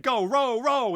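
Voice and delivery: captain yelling at his sailors to row for their lives; urgent shout. Acted. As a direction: scream the crew into rowing. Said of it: "I said".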